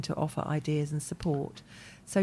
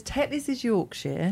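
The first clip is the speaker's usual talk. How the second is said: mock Yorkshire; 6 semitones higher than usual. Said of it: "he says".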